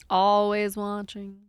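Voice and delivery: drawn-out mock menace. Quoting film character.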